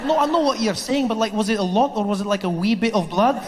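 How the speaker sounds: imitating a pal's eager question; mock Scottish friend. Friend asks Trevor about the blood, lightly mimicked Scottish voice.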